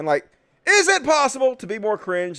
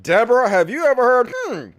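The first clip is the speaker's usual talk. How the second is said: imitating Trump; 5 semitones higher, 4 dB louder than usual. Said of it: "the way you said her name".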